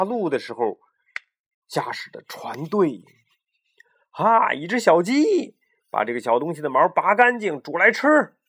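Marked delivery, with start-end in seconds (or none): 4.1-8.4 lightly voiced captain giving an order; a hint of a gruff captain; captain's command. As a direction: order the chick cooked. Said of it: "船长命令道".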